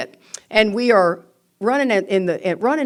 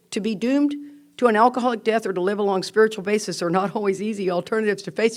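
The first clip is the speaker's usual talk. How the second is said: quick rereading; 2 semitones higher, faster than usual. Shown as a demonstration. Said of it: "Read that line again".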